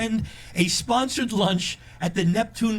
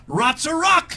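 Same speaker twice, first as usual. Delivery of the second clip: mock Chinese accent; 11 semitones higher, 3 dB louder, slower than usual. Fortune cookie punchline.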